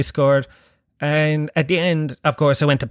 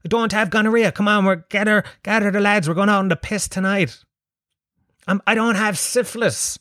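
mock excited phone call; 7 semitones higher than usual. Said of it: "You don't ring up people".

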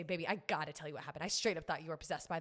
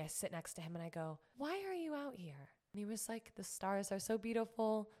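quiet; 5 dB quieter than usual. Retold or imitated. Quiet calm retelling.

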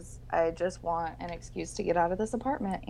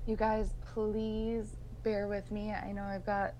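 creaky, rough sick voice; vocal fry. Real, not acted. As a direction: talk through a croaky fry. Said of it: "I've got the worst voice, the worst vocal fry".

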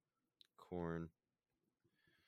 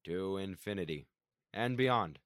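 Buzz Lightyear; 8 dB louder, slower than usual. Retold or imitated. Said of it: "Buzz Lightyear has a very monotone voice".

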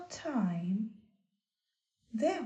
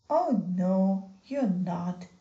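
big goat voice; 3 semitones lower, 5 dB louder than usual. Acted. Big goat defies troll.

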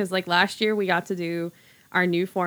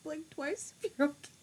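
soft conspiratorial hush; 10 semitones higher, 8 dB quieter than usual. Retold or imitated. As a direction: whisper it like checking on a hostage. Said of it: "I was like".

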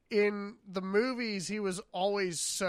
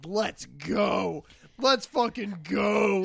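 loud hyped cry of excitement; pumped and loud; hyped-up cheer; 5 dB louder, slower than usual. Retold or imitated. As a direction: cheer it on, getting louder. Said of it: "and I'm like".

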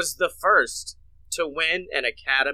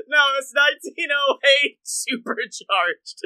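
shout; 9 semitones higher than usual. Real, not acted. Correcting self, shouted.

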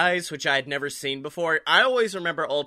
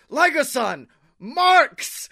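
high, loud urgent call; urgent warning shout; 7 semitones higher, 4 dB louder, much slower than usual. Retold or imitated. Warning Liger of fans nearby.

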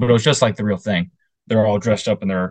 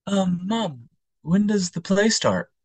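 put-on high, slow child voice; imitated kid; 10 semitones higher, much slower than usual. Kid at the opera asking mother, imitated child voice. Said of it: "there was this kid behind me".

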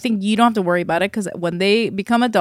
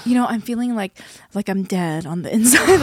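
dramatic. Retold or imitated. Parent retelling a sick kid's overheard line, dramatic. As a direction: imitate a kid's hammed-up lament. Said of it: "he was saying it all dramatically".

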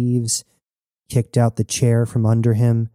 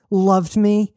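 high, incredulous scoff; 9 semitones higher, 3 dB louder than usual. A narrator's reading. Jazz answering Knox's love claim, scoffing high. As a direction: throw it back as a scornful question. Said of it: "She scoffed".

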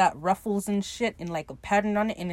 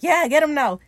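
higher, louder mock crowd cheer; excited cheer; 7 semitones higher, 7 dB louder than usual. Crew cheering on Steed in the fight, excited. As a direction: egg him on excitedly.

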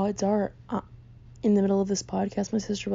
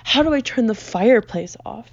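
louder mock yell; imitating sister's yelling; 2 semitones higher, 6 dB louder than usual. Sister demanding help with the fireplace, mock yelling. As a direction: throw the question out loudly as an irritated sister. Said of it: "she just yells at me".

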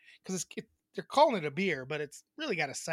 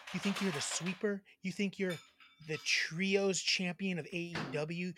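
Cash Lambo wrestling promo; 2 semitones lower, 5 dB quieter than usual. Pretend. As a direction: call out a rival, wrestler style. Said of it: "I'm gonna cut a little promo".

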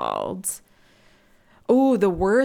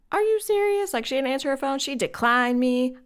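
mock outraged caller; 6 semitones higher than usual. Caller pissed at being declined.

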